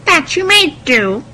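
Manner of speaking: high, loud scheming stepmother; wicked stepmother. A narrator's reading. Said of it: "said the stepmother".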